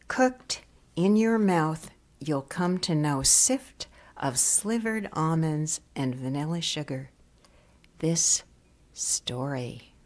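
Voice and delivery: measured poem recital with long pauses; poetry reading. Acted. Poet reading to an audience before discussing the new book, measured poetry reading. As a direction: linger on the key words and let lines fall away. Reads own poem aloud.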